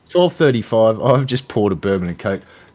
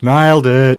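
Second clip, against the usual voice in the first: louder, higher nailed it; excited praise; 4 semitones higher, 8 dB louder than usual. Real, not acted. Host praises the guest's Aussie impression, louder cheer. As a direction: cheer him on. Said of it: "repeats it louder".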